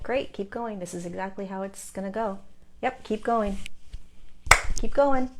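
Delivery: lightly voiced encouraging guides; a hint of an upbeat coach relaying approval; guides cheering on. Guides answer her daily check-in, light encouragement. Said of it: "That's how they speak".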